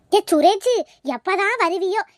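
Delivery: loud, impatient call for a son. Acted. Mother waiting for her son abroad, calling out.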